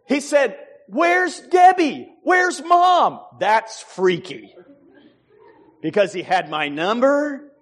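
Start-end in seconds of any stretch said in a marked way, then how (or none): 0.9-3.2 high, loud, slow mock caller; fake son calling. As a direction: shout it as the pretend son. Imitating fake son asking.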